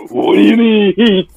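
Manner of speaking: lightly slowed Oaken impression; a hint of Oaken's lilt; Oaken from Frozen voice. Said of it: "like Oaken from Frozen".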